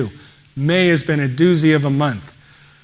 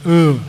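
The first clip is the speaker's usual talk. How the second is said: louder, imitated couch-bound groan; mock groan; 5 dB louder than usual. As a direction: groan as if stuck sick on the couch. Imitates lying sick on couch.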